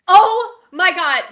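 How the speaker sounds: slow, loud, drawn-out oh my God; disgusted oh my god. Real, not acted. Grossed out by the beetle photo, slow loud dismay. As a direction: let the horror stretch out.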